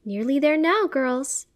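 high, loud, happy mom voice. A narrator's reading. Mom leading girls down the street, happy. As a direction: call it out cheerfully, pitch lifted. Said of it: "Mom happily remarks".

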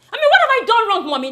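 sneering, amused challenge; mocking laugh. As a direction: laugh it at him in contempt. Daughter mocks uncle, laughing.

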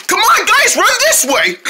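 high-pitched urgent call; rally the others to flee; urgent panic. Pretend. Turtle leads siblings away from bear, urgent.

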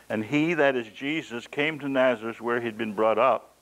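measured public reading; scripture reading. Acted. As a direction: read the passage out steadily. Reads scripture passage.

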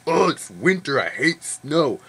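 mock whiny complaint about winter; mock complaining. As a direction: whine it like a grumpy Wisconsinite. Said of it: "you're like".

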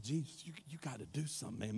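soft, hushed plea to her son; Mary pleading. Retold or imitated. Mary quietly pressing Jesus at the wedding. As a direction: quietly urge him to act. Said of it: "She said".

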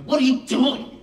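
high, loud scolding cry; mad teacher. Retold or imitated. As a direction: scold her like a child who broke something. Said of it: "Like, she's so mad".

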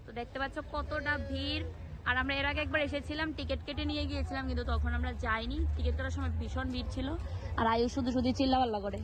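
cracked, strained voice; hoarse voice. Real, not acted. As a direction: talk through a broken voice. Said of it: "আমার গলা পুরো ভেঙে গেছে আবার".

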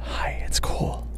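soft unvoiced greeting; whispering. Real, not acted. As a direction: whisper it under your breath.

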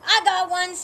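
high, loud triumphant call. Acted. Phoebe calling out her catch, loud and high. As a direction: call across the yard proudly. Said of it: "called Phoebe".

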